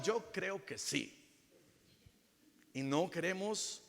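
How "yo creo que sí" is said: stubborn. Retold or imitated. Grudge-holder answers stubbornly.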